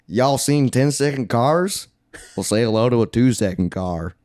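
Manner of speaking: a hint of his Southern accent, mocking the line; imitating Bama Boy. Recapping the movie, mocking Bama Boy's Southern accent. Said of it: "what I did is how he says".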